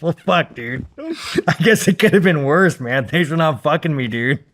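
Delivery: high, loud, laughing through it; laughing mock reply. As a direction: chuckle out a sarcastic thank-you.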